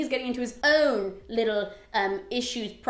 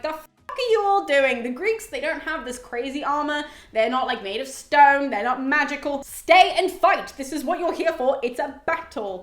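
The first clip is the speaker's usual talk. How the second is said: mock yelling; 3 semitones higher, 5 dB louder than usual. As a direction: imitate Apollo scolding his troops, louder on the key commands. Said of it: "who's just yelling at the Trojans".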